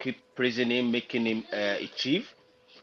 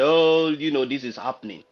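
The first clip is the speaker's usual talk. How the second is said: raised voice; 4 semitones higher, 5 dB louder than usual. Retold or imitated. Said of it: "raise my voice and say".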